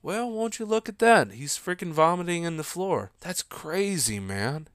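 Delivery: nonchalant mock commentary; mildly amused, unbothered impression; Joe Rogan. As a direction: take it in stride, lightly imitating an unbothered host. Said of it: "Joe Rogan's just nonchalant".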